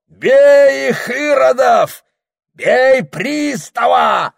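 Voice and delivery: very high, loud, slow shouting; furious riot cry. A narrator's reading. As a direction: rouse the barracks to beat them. Yashka rages, calls to riot.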